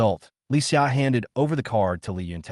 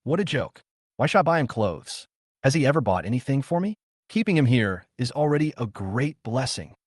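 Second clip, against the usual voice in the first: sneering; 3 semitones higher than usual. Acted. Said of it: "and sneered".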